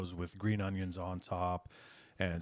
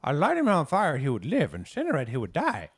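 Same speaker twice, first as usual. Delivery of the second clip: emphatic Herb; 7 semitones higher, 10 dB louder than usual. Acted. GM voices Herb's explanation.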